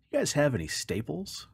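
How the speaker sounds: the duck sets the trap. Acted. Duck asks for staples.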